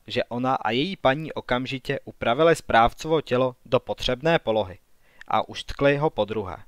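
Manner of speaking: plain reading voice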